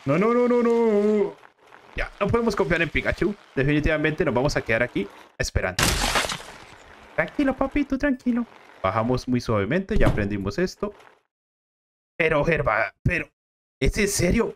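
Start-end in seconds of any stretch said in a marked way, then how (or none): 3.5-10.9 low, calm fatherly voice; dad voice. Acted. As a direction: soothe your son as the gruff dad.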